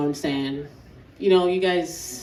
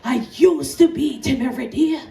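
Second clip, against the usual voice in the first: put-on baffled Jamaican-accented dad, raised voice; higher, louder Jamaican dad voice; Jamaican father; 4 semitones higher, 5 dB louder than usual. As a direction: complain loudly in a Jamaican accent. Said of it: "He'd be like".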